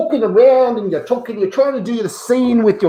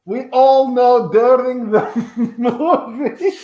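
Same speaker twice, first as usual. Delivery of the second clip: laughing; 2 semitones higher, slower than usual. Acted. Breaks up mid-line.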